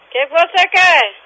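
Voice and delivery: high, insistent demand; fed up with a nuisance caller; real exasperation. Real, not acted. Demands what the caller wants.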